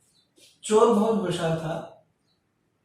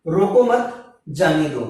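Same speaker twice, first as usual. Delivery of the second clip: "रोको मत" together, short break, then "जाने दो"; group "मत" with "रोको" and pause before "जाने दो"; pause after मत; 3 semitones lower, 3 dB louder than usual. Shown as a demonstration. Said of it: "पहला वाक्य है". ("मत" के बाद विराम)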